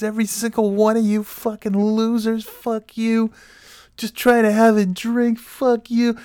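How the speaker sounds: very high, stretched-out re-enacted scream; retold screaming. Backing out the bar door at everyone, screaming. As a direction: hurl each insult in a sustained high mock scream.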